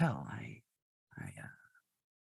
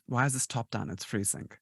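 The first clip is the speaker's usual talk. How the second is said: put-on German accent. Host showing how the villain spoke, light German accent. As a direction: repeat the film line with a slight German accent. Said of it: "you could hear the way I said that".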